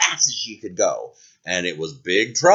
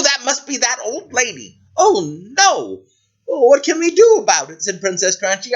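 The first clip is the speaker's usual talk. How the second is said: high, eager princess voice; excited princess; 5 semitones higher than usual. Acted. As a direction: gush over jewels, high. Princess frets and dreams.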